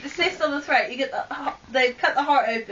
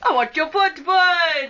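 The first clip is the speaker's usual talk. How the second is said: silly clown; 2 semitones higher than usual. Pretend. Silly shouted baby talk.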